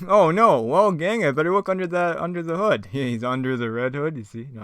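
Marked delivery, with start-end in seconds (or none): 0.1-2.9 loud, high cartoon gang-leader voice; Fred. Fred facing engine trouble with the gang, loud put-on voice. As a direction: announce the trouble big and hammed-up. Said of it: "my best Fred impression".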